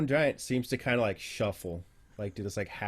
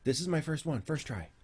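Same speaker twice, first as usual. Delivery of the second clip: lightly voiced, hesitant, earnest bird-man; eager Aarakocra researcher; 7 semitones higher than usual. Dirk tells a visitor of training stone giants, halting earnestness. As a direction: stammer a little while explaining your grand project.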